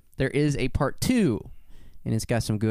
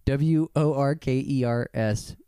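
spelling it out. Real, not acted. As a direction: spell each letter out deliberately. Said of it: "just spell it out".

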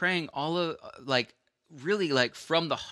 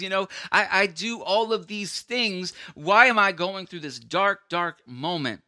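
indignant self-justifying; 5 semitones higher than usual. Retold or imitated. Acting out self-pitying protest.

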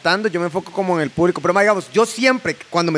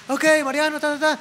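announcer voice; 9 semitones higher than usual. Retold or imitated. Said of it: "el speaker está diciendo".

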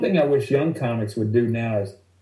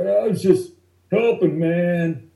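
meek heckler excuse; 6 semitones higher than usual. Retold or imitated. Caught heckler whines his excuse to Lewis, high and meek. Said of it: "the guy was like".

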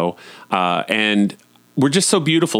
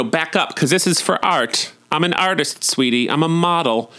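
mock diva; 6 semitones higher than usual. Mock vain artist posing.

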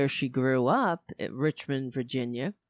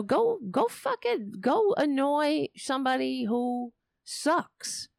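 exasperated outburst; 7 semitones higher than usual. Real, not acted. Telling trolls to leave.

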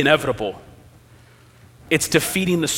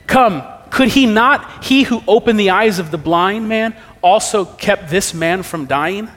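doubting onlooker; 3 semitones higher, 3 dB louder than usual. Acted. Preacher reading scripture, voicing the doubting Jews as sceptical onlookers. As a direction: lift the voice and drag the words like a sceptic.

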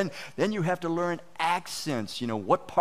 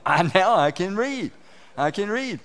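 acted excitement, louder at the start; proud new reader; 3 semitones higher, 6 dB louder than usual. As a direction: play a child thrilled at a first success.

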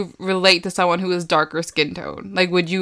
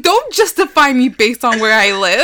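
raised, louder mock protest; higher, emphatic retold objection; mock indignant comeback; 4 semitones higher, 6 dB louder than usual. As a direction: push back in playful indignation. Acted indignant comeback to Americans.

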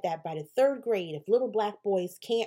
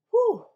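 exhale whew; 14 semitones higher, 7 dB louder than usual. Real, not acted. Bracing to retell pregnancy.

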